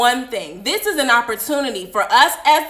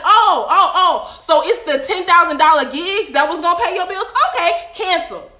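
voicing God; 4 semitones higher, 4 dB louder than usual. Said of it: "God's like".

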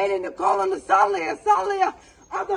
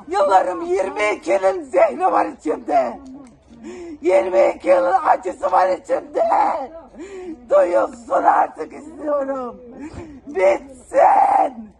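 anguished outburst; 3 dB louder than usual. Real, not acted. Pouring out years of grievance.

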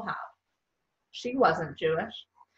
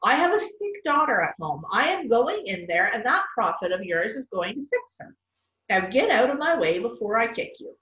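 fierce. Acted. Fierce mother pushes past.

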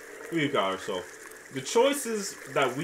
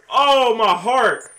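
breathless relief; 9 semitones higher, 13 dB louder, much slower than usual. Real, not acted. After escape.

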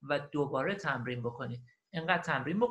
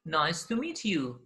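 very slow teaching delivery; listen-and-repeat model; much slower than usual. Shown as a demonstration. Teacher repeats the recording for learners, slow model. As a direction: draw each word out for learners. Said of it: "and repeat و قرار شما تکرار کنید".

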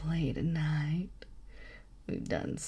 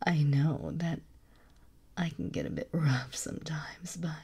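motherly whisper; slower than usual. Acted. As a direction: coax them gently to sleep. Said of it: "use this motherly tone".

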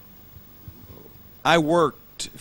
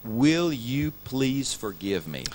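sincere plea; slower than usual. Shown as a demonstration. Preacher modelling the key apology phrase for the congregation. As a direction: offer it slowly, meaning every word. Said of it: "One of the most important words or, or phrases you can ever learn is this".

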